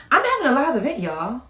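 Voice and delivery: high, bubbly announcement; can't contain the news; super excited. Real, not acted. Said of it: "Super duper excited".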